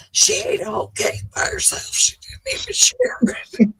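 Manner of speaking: put-on high, fast, whiny kid voice; mother mimics her kids tattling, high and whiny. Kids tattling about the cake.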